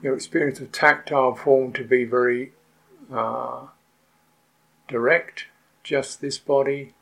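unhurried meditation guidance with long pauses; guided meditation. Real, not acted. Teacher settling retreatants into awareness of the body, guided meditation. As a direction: guide the sitters patiently, leaving long silences between phrases.

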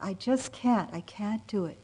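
replaying her overwhelmed younger self lightly; retold upset. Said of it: "really upset, overwhelmed".

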